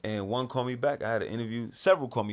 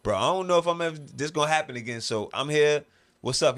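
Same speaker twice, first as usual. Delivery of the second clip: raised, loud retold insistence; emphatic reply; 5 semitones higher, 5 dB louder than usual. Man explaining to Kedar why he came early, emphatic. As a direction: push it out boldly.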